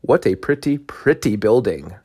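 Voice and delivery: ooh and aah over it, hammed-up; mock awe. Preacher imitating people beholding the temple, mock awe. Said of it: "and they cry out".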